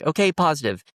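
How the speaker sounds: upbeat positive switch. Retold or imitated. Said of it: "change my attitude completely and just be like".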